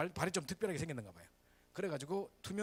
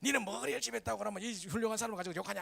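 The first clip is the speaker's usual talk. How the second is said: higher-pitched mock mother's protest; indignant mother; 6 semitones higher than usual. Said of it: "이 엄마들의". (발끈해서 따지는 엄마 흉내)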